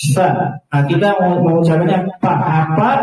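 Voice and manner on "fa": fa with a clear f; Arabic fa. Shown as a demonstration. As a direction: say fa, lips on teeth. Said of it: "di dalam bahasa Arab ada".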